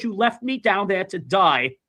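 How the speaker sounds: slow, drawn-out retold reproach; acted guilt trip, unhurried; accusing mother. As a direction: stretch the words to lay on guilt. Retold mother repeats her accusation.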